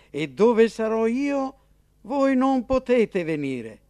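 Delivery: finale più alto, forte e lento; Gesù solenne. Acted. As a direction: annuncia con peso profetico. Gesù parla alle guardie. (Gesù annuncia la sua partenza, solenne)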